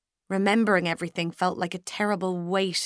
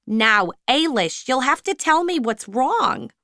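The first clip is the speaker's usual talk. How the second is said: louder, firm but caring; lightly voiced supervisor; 5 semitones higher, 5 dB louder than usual. A narrator's reading. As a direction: coax the truth out of her. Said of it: "Miss Fortini said".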